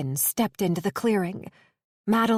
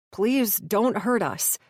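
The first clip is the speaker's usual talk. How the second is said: quivering plea. Acted. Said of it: "Quinn's voice quivered".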